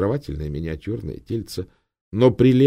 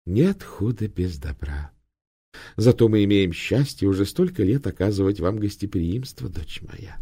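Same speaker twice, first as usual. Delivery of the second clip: good-natured abbot. Acted. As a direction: gently soothe her, smiling. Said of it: "Добродушно улыбнувшись".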